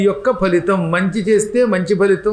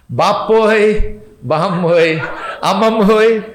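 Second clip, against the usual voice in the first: mock wailing cries. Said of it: "ఇలా రకరకాల వరుసలు అనమాట".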